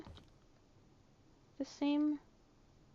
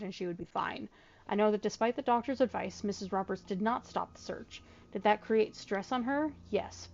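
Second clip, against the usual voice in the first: letter reading. Acted. Reads the in-game letter aloud.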